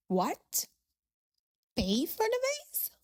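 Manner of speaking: jumps way up on pay for the vase in outrage; a stunned what, then high and incredulous; shocked disbelief. Acted. Guest told to pay for the broken vase, shocked. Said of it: "you're shocked".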